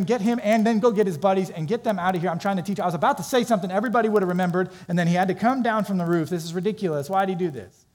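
rapid, mildly heated mock rant; imagined berating. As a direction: act out an irritated teacher interrupted. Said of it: "yelled at him".

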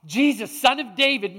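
restrained version of a desperate shout; retold cry for help. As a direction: call out insistently without really screaming. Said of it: "He screams at the top of his lungs".

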